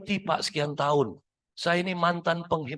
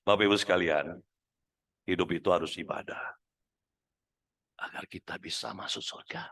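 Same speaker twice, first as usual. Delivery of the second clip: much lower, fading to a whisper; preacher's wrong voice; 13 semitones lower, 5 dB quieter than usual. Shown as a demonstration. Preacher talks of heaven to the congregation, low and fading. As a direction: say heaven as if it were grim. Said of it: "Saya kasih contoh".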